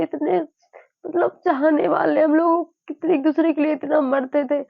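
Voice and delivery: holding back sobs while remembering her husband; tearful, near crying. Real, not acted. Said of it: "कोशिश कर लूं कि रोना नहीं है". (रोते हुए, भरे गले से)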